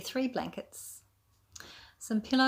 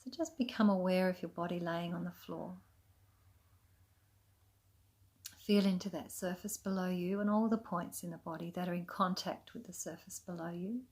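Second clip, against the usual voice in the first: calm, unhurried yoga nidra guidance with long pauses; soothing, even meditation voice; guided meditation. Acted. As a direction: gently lead them into rest, leaving space between phrases. Guides a relaxation practice.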